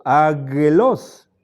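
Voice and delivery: aggelos said slowly with a hard g, agelos; wrong take of aggelos with hard g; wrong pronunciation. Shown as a demonstration. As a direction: say aggelos as plain agelos, drawn out. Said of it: "En vez de pronunciar".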